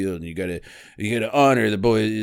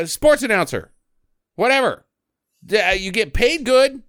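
usual speaking voice

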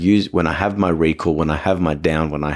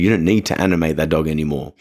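normal talking voice

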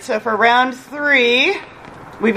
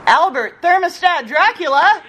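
higher, hyped-up name call; announcer hype; 6 semitones higher than usual. Shown as a demonstration. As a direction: announce it to get the crowd going. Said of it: "say that one again, and you guys respond".

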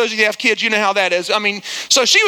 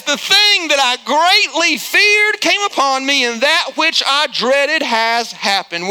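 scripture declamation; 2 semitones higher, slower than usual. Real, not acted. Pastor reading Job to the congregation, slow declamation. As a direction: declaim the verse deliberately, then let the pitch settle.

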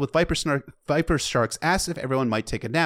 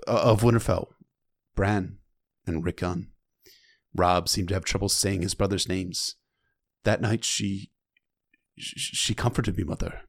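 steady, lower storytelling read of "The maid came forward"; book reading; 3 semitones lower than usual. Acted. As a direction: read it like an audiobook narrator. Reads the novel passage aloud.

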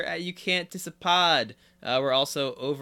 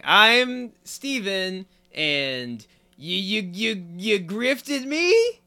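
mock betrayal; 4 semitones higher, much slower than usual. Mock betrayal, slow and whiny.

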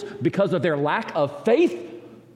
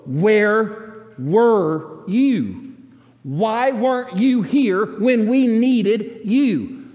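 slow, louder, drawn-out plea; pleading question; 4 semitones higher, 4 dB louder, much slower than usual. Acted. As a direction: stretch out each word as if begging. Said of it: "Martha wants to know".

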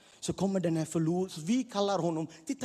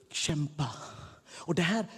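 usual speaking voice

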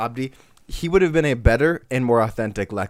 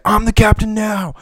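higher, louder captain bark; loud captain impression; 11 semitones higher, 8 dB louder than usual. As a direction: bellow it like a pirate captain. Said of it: "He's like".

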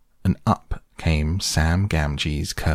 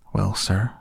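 a touch of hesitant dithering; slightly raised, uncertain servant's voice; 3 semitones higher than usual. Acted. Gardener starting to answer Gandalf's question, dithering a little. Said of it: "dithering a little".

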